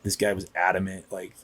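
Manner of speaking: soft, breathy apology; hushed apology. Retold or imitated. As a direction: say sorry under your breath to the medics. Apologising quietly to firefighters.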